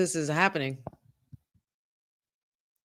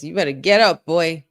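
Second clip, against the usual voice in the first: loud call to a downed wrestler; yelling at the screen; 2 semitones lower, 6 dB louder than usual. Real, not acted. Fan yelling at a fallen wrestler, loud. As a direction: shout him back onto his feet.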